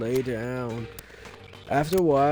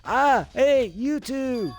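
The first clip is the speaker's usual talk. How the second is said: Mondo voice; 10 semitones higher, much slower than usual. Acted. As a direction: bark it like a gang leader. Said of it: "her Mondo impression there".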